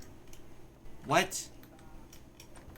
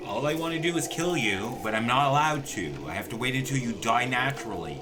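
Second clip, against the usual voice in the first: higher, louder frustrated tirade; exasperated rant; 4 semitones higher, 6 dB louder than usual. Real, not acted. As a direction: vent at the Sim who refuses to die. Ranting at the undying Sim.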